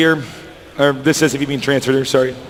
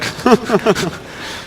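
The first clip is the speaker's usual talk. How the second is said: cartoon cat giggle; 5 semitones higher, 3 dB quieter than usual. Real, not acted. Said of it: "my cartoon cat giggle come out".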